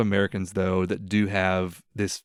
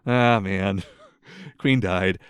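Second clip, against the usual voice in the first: mildly disappointed; 2 semitones lower, much slower than usual. Retold or imitated. Host reporting the Queen's death like a closed restaurant, mildly let down. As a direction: shrug off the news with token sadness. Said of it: "the same level of sadness".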